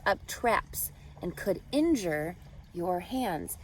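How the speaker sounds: lilting rhyming read-aloud voice; reading to children. A narrator's reading. Teacher reading a rhyming book to students, storybook lilt. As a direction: read the rhymes to the class with a gentle bounce.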